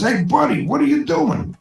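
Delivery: surprised. Acted. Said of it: "The bartender says".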